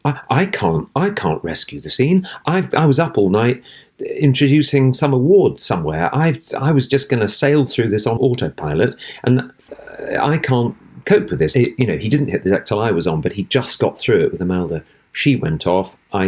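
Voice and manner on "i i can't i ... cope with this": panicked thought. Retold or imitated. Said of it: "started having palpitations because he thought".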